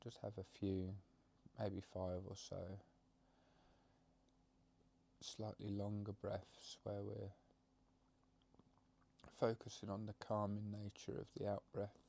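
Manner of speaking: calm meditation guide with long pauses; gentle guidance, phrase by phrase; guided meditation. Acted. Leads a breathing meditation.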